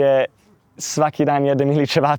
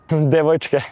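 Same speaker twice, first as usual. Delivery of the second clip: sheepish laugh; 2 semitones higher than usual. Real, not acted. Admits a girl was the reason.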